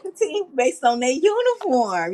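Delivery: high-pitched, laughing retold approval; delighted agreement. Telling co-host why she and buddy are cool, delighted.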